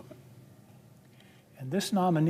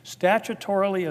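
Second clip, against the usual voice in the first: "statutorily" slightly higher and louder, each syllable spelled out; stress on statutorily; 4 semitones higher, 5 dB louder than usual. Real, not acted. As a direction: lean hard on "statutorily". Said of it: "I emphasize that word".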